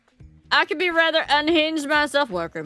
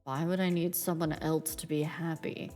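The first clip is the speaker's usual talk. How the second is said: low, cool Reaper voice, lower pitch; Grim Reaper voice; 4 semitones lower, 8 dB quieter than usual. Acted. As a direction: aloof death god, calm and low. Death's game lines voiced.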